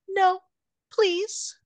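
high, pleading cry of no; mock pleading. Amber begging Marco to stop, high mock plea. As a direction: beg him to stop, hammed-up.

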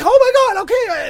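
high startled okay; high oh my God, okay. Retold or imitated. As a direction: caught off guard, backing down. Startled reply to roommate's panic.

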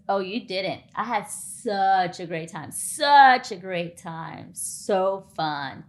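hollow reassurance. Retold or imitated. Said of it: "he goes".

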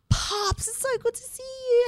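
high, delighted gasping hello; excited greeting. Retold or imitated. Greeting her team's father figure at the reunion, high delighted hello. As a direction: greet him like family after years.

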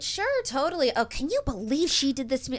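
put-on lightly bubbly Valley girl; gushing Valley girl gossip, high at first. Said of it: "Oh, you sound such like a Valley girl right now".

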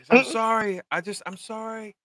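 high, pleading mock whimper; imitated crying apology. Wounded man apologizing to Joel, mock crying. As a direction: beg forgiveness in a put-on crying voice. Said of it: "he's crying. Like".

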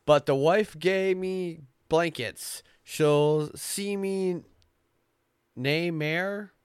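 slow, loud, high Scottish brogue; Scottish accent. Acted. The brownie laments the wife's blankets, in a slow Scottish accent. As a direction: draw it out like an old Scots ballad in a Scottish accent. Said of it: "you're trying to do it in Scottish".

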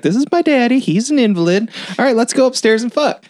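high-pitched, hammed-up imitation of a woman; mock Pearl brush-off. Pearl explains away her invalid daddy, mock brush-off.

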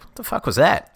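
put-on the older daughter blurts out, shaken; startled exclaim. Big sister startled, half-shouted. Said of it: "And Lena is like".

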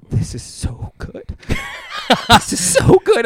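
squeaky weepy mock sobbing, rising into a laughing wail; imitating crying laugh. Cohost mocks partner crying over his joke, high weepy wail. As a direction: play him half-crying over his own joke. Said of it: "he'll be like".

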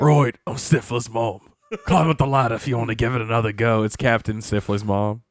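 lightly put-on Irish voice; mock Irish accent. Continuing the bit in a light Irish accent. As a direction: say it like an Irish sea captain. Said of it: "switch it up to Irish".

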